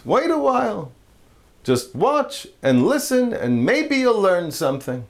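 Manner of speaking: a hint of a patient old rabbi. Rabbi voiced in joke.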